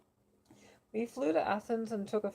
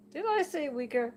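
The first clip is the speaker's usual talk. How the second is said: higher, louder New York oracle, caught out; puzzled New York oracle; a hint of a confused New Yorker; bad New Yorker accent; 9 semitones higher, 5 dB louder than usual. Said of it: "New Yorker accent".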